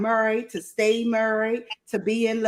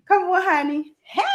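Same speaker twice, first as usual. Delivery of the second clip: higher, coaxing call to a partner; calling over; 7 semitones higher than usual. Real, not acted. Wife urges husband to come say hi, calling over. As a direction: call your honey into the room.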